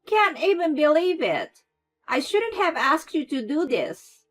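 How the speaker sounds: loud, high, mock-exasperated; enjoy blaming her; gloating curse. A narrator's reading. Mother-in-law curses Claire with a grin, gloating. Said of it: "grinning as she cursed".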